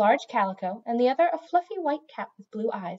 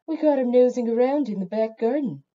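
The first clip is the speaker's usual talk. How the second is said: growled; 3 semitones higher, 5 dB louder than usual. A narrator's reading. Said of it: "a long-haired tabby growled".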